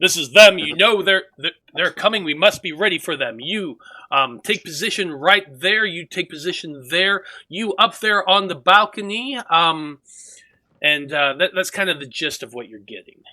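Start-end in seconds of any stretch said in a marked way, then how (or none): 0.0-9.4 arrogant, haughty shouting, loud and fast. Narrating a scene for a listener, voicing someone giving orders; haughty voice shouting orders. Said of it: "a very haughty voice um, shouting orders".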